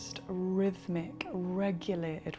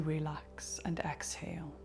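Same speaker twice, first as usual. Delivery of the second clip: whispered exhale; 3 semitones lower, 6 dB quieter than usual. Acted. Exhale cue during breathing exercise.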